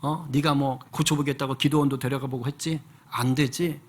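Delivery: a hint of God rebuking him gently; God speaking. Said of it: "하나님께서 그렇게 말씀을 하시더래요".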